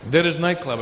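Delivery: lightly acted Lebanese English; Lebanese accent. Lebanese friend pointing out the club, Lebanese accent. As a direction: put on a hint of a Lebanese accent.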